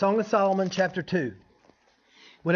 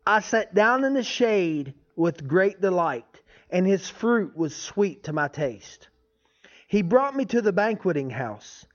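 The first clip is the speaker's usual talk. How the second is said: scripture reading. Acted. Reads scripture aloud.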